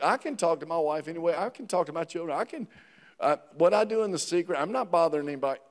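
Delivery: fast, soft, brushing it off; dismissive excuse. Retold or imitated. Pastor voicing a churchgoer excusing hidden sin, quick offhand mumble.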